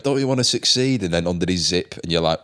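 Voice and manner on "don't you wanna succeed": mock headmaster. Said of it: "if you went".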